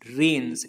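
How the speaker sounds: रेन्स with the final s clearly heard; final s sounded. Shown as a demonstration. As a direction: make sure the s at the end of रेन्स is heard. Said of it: "इसमें एस होना compulsory है". (रेन्स में आख़िरी एस साफ़ बोलें)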